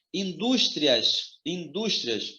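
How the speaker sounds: Indústrias with a drawn-out, stressed DÚS; Indústrias said slowly to show its strong second syllable; stress on middle syllable. Shown as a demonstration. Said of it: "a sílaba mais forte é do".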